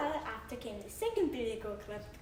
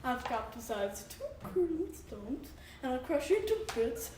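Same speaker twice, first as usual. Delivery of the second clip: big goat daring the troll to fight; defiant challenge; 4 semitones higher than usual. Acted. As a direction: dare the troll to come.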